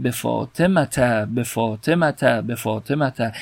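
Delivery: به فاطمته ending in -ta each time; fatha ending. Shown as a demonstration. Teacher recalls the prayer phrase, به فاطمته ending in -ta. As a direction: end فاطمته on short a, be fatema-ta.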